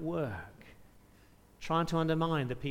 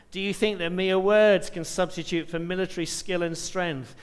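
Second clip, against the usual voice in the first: louder, slightly raised reading of the boastful king's challenge; taunting enemy envoy; 3 dB louder than usual. Acted. Preacher voicing the Assyrian spokesman taunting Hezekiah, scornfully. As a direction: read it as the Assyrian spokesman mocking the besieged. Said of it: "This is what the great king of Assyria says".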